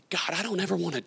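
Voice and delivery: hushed whisper to God; whispered prayer. Retold or imitated. Repentant man whispering his prayer to God. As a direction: whisper it like a confession.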